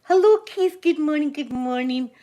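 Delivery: excited greeting. Real, not acted. Greeting a viewer on livestream.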